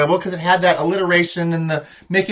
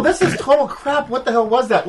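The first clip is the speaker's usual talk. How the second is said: mock outrage; 5 semitones higher than usual. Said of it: "I'm all".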